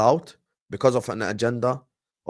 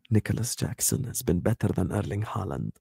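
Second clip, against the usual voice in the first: much softer and lower, conspiratorial; whispered claim; 6 semitones lower, 6 dB quieter than usual. Shown as a demonstration. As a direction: say it as if only friends should hear. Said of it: "I'm gonna whisper it".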